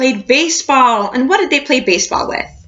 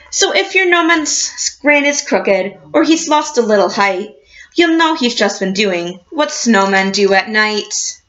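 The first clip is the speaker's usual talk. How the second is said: put-on reading to children; 2 semitones lower than usual. A narrator's reading. Teacher reading a picture book to her class, storybook voice.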